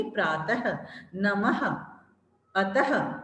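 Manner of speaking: teacher demo of the visarga h in प्रातः; visarga h sound. Shown as a demonstration. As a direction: let the h breathe out after each word. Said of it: "ह की sound आती है".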